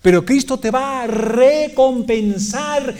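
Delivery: fervent pulpit delivery, stretching key words; impassioned preaching. Real, not acted. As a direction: preach it with full conviction. Preaches at full force.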